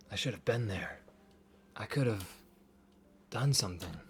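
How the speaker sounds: long dramatic pauses between phrases; anime pause. Acted. Duncan laments missing the fight, with dramatic anime pauses. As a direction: pause heavily before each part. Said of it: "That's such an anime pause".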